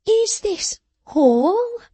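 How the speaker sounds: slow, high demanding question; stern demand. A narrator's reading. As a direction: press him for every penny. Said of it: "demanded the person".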